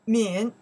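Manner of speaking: 敏 pronounced loudly on its own; model pronunciation. Shown as a demonstration. Teacher shows how the character is pronounced, loud 敏. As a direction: project 敏 as a model syllable. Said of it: "That's a character pronounced".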